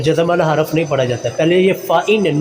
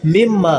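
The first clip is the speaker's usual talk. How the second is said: मिम्मा with the final maa held; lengthened second meem. Shown as a demonstration. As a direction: recite मिम्मा, stretching maa. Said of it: "दूसरे मीम को लंबा करेंगे". (मिम्मा का 'मा' लंबा)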